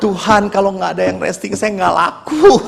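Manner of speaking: comic plea stretched into a wail; mock wailing. Priest fears losing bookings, mock wailing prayer. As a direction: whine to God, dragging out the last word.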